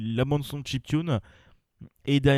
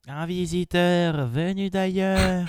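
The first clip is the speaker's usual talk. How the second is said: slow, higher, grand trailer voice; dramatic announcer voice; 6 semitones higher, much slower than usual. Acted. Dramatic slow game line.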